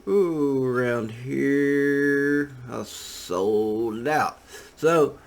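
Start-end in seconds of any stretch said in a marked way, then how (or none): 0.1-2.5 slow, drawn-out mock British accent. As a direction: slip into a put-on British accent, slowly. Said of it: "that British accent came from".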